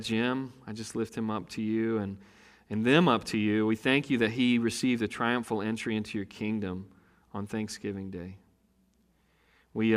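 quiet, low prayer voice; hushed pastoral prayer. Acted. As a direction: pray softly to the Lord. Pastor prays before the sermon.

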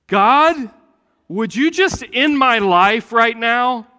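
high, loud anguished plea to God; despairing cry. Retold or imitated. Elijah in the cave begging God to end his life, anguished high cry.

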